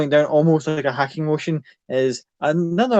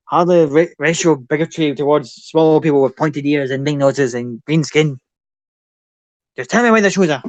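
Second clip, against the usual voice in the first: goblin rant; 4 dB louder than usual. Acted. Goblin blustering at his victim, loud and indignant. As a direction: bluster like an affronted little goblin. Goblin ranting, then demanding.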